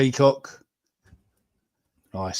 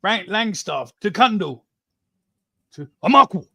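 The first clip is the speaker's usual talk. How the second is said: mock commentator; 4 semitones higher, 3 dB louder than usual. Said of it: "mimicking QPR commentator".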